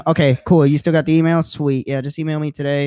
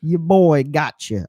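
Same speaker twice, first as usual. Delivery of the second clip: chipmunk voice; 3 dB louder, much slower than usual. Pretend. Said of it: "sound like a chipmunk".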